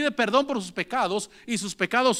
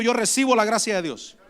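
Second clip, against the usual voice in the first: lead-in for the congregation. Shown as a demonstration. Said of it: "Diga conmigo".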